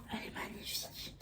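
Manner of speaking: soft awed whisper. Real, not acted. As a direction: breathe it in wonder. Whispered admiration.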